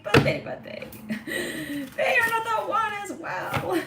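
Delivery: high-pitched, breaking up with laughter; laughing. Real, not acted. Reader cracking up while calling something out, laughing. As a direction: squeal the words out through real laughter.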